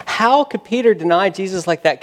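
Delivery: HOW hit hard, incredulous preaching; impassioned disbelief. Real, not acted. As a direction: press the question with rising passion. Preacher repeats the question with force.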